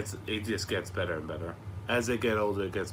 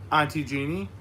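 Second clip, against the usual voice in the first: put-on toddler voice; 6 semitones higher, 4 dB louder than usual. Voicing toddler answer.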